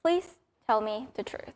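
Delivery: imitating an unamused kid, softly and evenly; quiet, measured mock-serious request; polite deadpan. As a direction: retell it politely, with no excitement. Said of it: "most polite, deadpan way".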